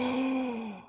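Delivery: high theatrical gasp; offended gasp. Acted. Sister shocked at being called Cheryl.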